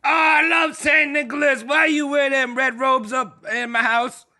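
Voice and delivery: hammed-up homeowner yelling at an intruder; mock excited shout. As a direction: overplay the joy at a guest. Player voices a startled homeowner.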